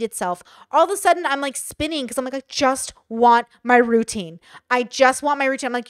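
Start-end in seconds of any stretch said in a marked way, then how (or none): 2.3-5.7 insistent, emphatic mock plea; retold inner tantrum, pushed out hard; acted desperate plea. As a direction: plead it with weight on every word. Acts out her desperate inner plea.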